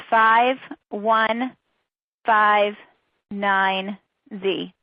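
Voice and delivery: spaced characters, easy to copy down; slow dictation. Real, not acted. Presenter gives everyone a chance, reading code slowly. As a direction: spell it out very slowly. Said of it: "I will read them slowly".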